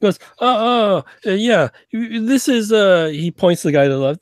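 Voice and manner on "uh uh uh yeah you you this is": put-on slurred, halting, higher drunk Russian voice; lightly played drunk Russian; drunk Russian agent. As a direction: stumble through it like a tipsy spy.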